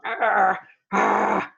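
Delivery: imitated growly angry voice; mock angry growl. Teacher imitates an angry person's voice, mock angry growl. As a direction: make a wordless noise of pretend anger. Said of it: "and you hear their voice".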